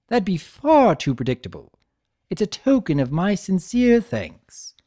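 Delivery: playful trickster Discord. Acted. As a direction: tease him like a smug jester. Discord voiced in the story.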